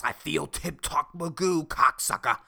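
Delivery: badly faked badass, punching the ending; Joey Diaz impression. Podcaster mimics the comedian he admires, badass. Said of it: "he sounds like a fucking badass".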